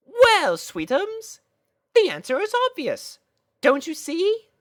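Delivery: high, knowing, coy sister voice; elegant big sister. Acted. Big sister coyly explaining to little sister, high and knowing. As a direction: play the teasing older sister.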